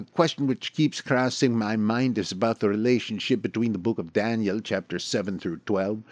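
put-on half-hearted try at a Dutch accent. Reading a Dutch listener's question in a clumsy Dutch accent. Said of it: "terrible attempt at a Dutch accent".

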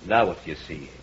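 insistent, swelling hypnotic voice; hypnotist's commands. Acted. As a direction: pull her in with every command. Hypnotist commanding the entranced wife.

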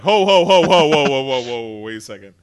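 mock alarm, starting loud and falling away; retold alarmed halt. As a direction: burst in to stop someone, then settle down. Retold alarmed interruption of wife.

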